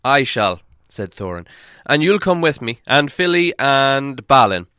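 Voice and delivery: loud commanding dwarf voice; dwarf leader. Acted. Dwarf leader ordering the crossing, loud and commanding.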